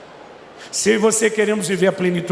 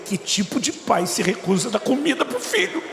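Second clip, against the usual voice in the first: laughing retelling; 5 semitones higher than usual. Retold or imitated. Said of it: "Primeira coisa que eu pensei".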